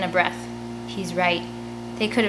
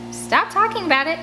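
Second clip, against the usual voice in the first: disgusted; 9 semitones higher than usual. Acted. Scarlet disgusted by the bones.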